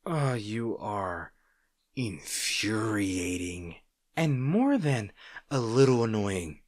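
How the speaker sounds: slow, drawn-out mock complaint; slow teasing exasperation; fond exasperation. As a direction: savour every word of the grumble.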